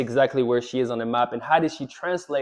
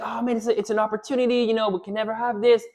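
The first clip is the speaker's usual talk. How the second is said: mock excited husband; 8 semitones higher, faster than usual. Husband excited about fishing trip.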